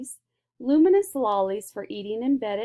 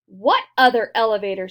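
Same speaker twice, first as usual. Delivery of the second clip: much louder, alarmed; alarmed scream; 9 dB louder than usual. A narrator's reading. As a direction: cry it out in alarm. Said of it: "screamed Missus T V".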